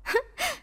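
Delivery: soft, high little chuckle; short amused laugh. Acted. Woman amused at harmless mop, soft laugh. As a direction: let out a brief high laugh.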